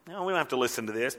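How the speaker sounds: quick, soft, offhand brush-off; mocking dismissal. People tuning out God's word, mocking dismissal. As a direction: toss it away hurriedly. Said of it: "and they mock it".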